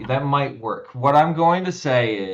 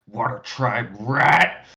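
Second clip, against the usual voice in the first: low, grumbling growl; 3 semitones lower than usual. Voicing a foe who was just tripped up: growled under the breath. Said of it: "he'll growl under his breath".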